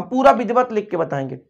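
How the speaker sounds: ordinary talk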